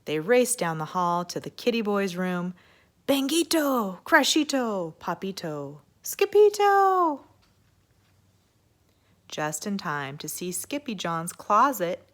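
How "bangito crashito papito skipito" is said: high, loud exclaiming names; excited calling. Acted. Girls rushing to the room, high and loud. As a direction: call out the noise in excitement. Family hears the ruckus.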